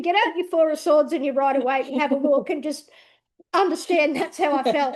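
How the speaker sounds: laugh-cry plea to look at the card; half laughing, half crying. Real, not acted. Urging listeners to see the card, laughing near tears. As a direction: crack between laugh and tears.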